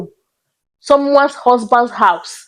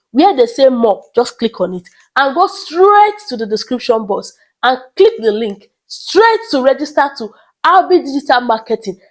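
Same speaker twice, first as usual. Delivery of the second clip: ad read. Acted. Pitching the marketing course to viewers, promo voice. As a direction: sell it like a promo break. Mid-video sponsor ad read.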